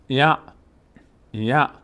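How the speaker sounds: "یا" said as "ya‘", cut short on ayn; یا joined to عین. Shown as a demonstration. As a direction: close "یا" with a vowelless ayn in the throat. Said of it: "یا رو میچسبونیم به عین". («یَع» با عینِ ساکن)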